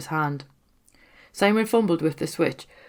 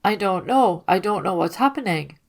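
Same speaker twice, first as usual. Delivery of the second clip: lightly nasal through a pinched nose, a touch of hidden fear; pinched-nose twang; 3 semitones higher, 4 dB louder than usual. Acted. Simon holding his nose against the stench, a pinched nasal twang. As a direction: talk with your fingers clamping your nose shut. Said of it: "the nasal twang of his clamped nose".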